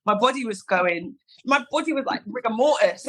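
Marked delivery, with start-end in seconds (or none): 1.4-3.1 laughing. Real, not acted. Laughing at her own reaction.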